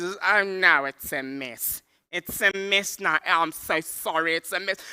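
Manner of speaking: hammed-up dismay; acted rattled driver; flustered panic. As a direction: apologize helplessly amid the chaos. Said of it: "We're panicking at the robots".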